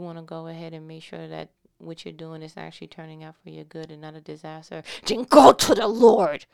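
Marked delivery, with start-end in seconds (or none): 5.1-6.4 a full-force shout; aggressive shout. Real, not acted. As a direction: blast it at the congregation. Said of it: "That was aggressive".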